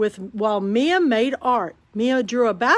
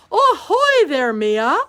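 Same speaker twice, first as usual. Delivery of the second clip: cheery call; 3 semitones higher, 6 dB louder, slower than usual. A narrator's reading. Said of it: "Mama said from the doorway".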